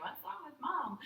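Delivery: put-on high-pitched little-child voice; imagined small daughter. Daughter wondering about her weeping mother, high child voice. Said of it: "she probably would have been like".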